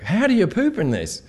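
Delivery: A singer. Retold or imitated. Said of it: "a singer is like".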